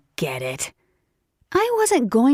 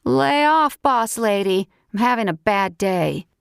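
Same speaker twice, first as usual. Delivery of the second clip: talking through a mouthful; words round a bite of sandwich; mouth full; 3 semitones higher than usual. Acted. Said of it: "Talking with my mouth full, I complained".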